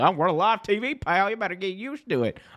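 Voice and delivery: very high, dismissive brush-off voice. Retelling the announcer's reply to the flubbed line: imitating J R. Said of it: "he's just like".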